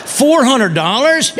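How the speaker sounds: high, slow, laughing outburst; shocked price squawk. Retold or imitated. Husband hearing the dress price, a slow laughing shriek. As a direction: gasp out the price in disbelief.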